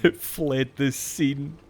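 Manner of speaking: slow, laughing echo of the game's line; mock police report. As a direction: parrot it like a stiff crime report, amused. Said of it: "Like it's a criminal".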